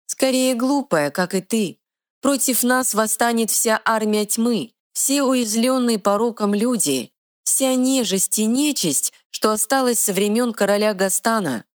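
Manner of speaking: high, quick little fairy voice. Acted. Fairy scolding the troll, high and bossy. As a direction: play a tiny sassy fairy, pitched high.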